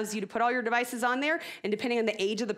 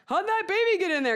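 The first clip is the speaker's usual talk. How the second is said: put-on child's question; 11 semitones higher, 6 dB louder than usual. Kid asks sudden question.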